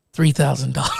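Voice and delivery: a laugh breaking through the words. Retold or imitated. Teller laughing while quoting the lady's small deposit. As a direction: laugh as you say it.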